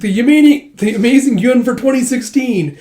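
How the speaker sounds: high, loud announcer hype; hammed-up campaign cheer; grand proclamation. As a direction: herald the champion excitedly. Retold proclamation of the winner.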